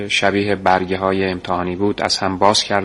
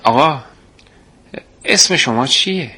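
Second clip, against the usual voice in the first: higher, hurried flustered question; 5 semitones higher than usual. Acted. Flustered boy hurriedly asks the man's name, rushed. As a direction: blurt it out, flustered. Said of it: "فقط با عجله پرسیدم".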